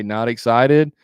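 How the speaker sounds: mirrored question, lift on "excited"; rising inflection. Shown as a demonstration. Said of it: "put an inflection on the end".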